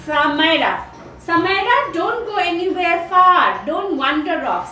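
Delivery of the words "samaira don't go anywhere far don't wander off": put-on mother warning child. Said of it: "Suppose Mama is talking to".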